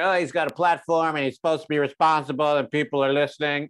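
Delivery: lightly put-on white guy voice; hint of a teacher imitation; slightly affected voice, mocking a complaint. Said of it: "Is that white guy voice".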